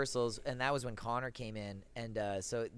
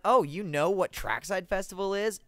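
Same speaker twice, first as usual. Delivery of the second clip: surprised; 9 semitones higher, 7 dB louder than usual. Retold or imitated. Mock surprise at grandma.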